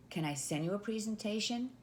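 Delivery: rising, hopeful ask on "presentation?"; a timid closed yes-or-no question; tentative permission ask. Shown as a demonstration. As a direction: ask it like you need their permission. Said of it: "instead of, for example".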